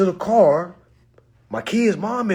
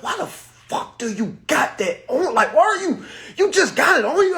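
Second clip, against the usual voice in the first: incredulous, laughing through it; a retold rant, cracking up; laughing disbelief; 9 semitones higher, 4 dB louder than usual. Retelling to viewers, laughing at his own shock.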